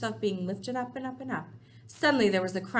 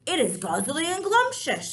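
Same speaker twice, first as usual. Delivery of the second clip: loud giant shout; 6 semitones higher, 6 dB louder than usual. Acted. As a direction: shout it back defiantly. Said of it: "shouted the blood bottler".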